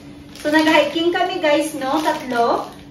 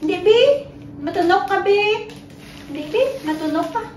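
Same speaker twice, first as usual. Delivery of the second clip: playful scold; 6 semitones higher than usual. Real, not acted.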